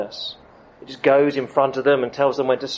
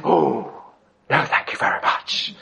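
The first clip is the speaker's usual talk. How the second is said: mock polite refusal. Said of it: "And we think".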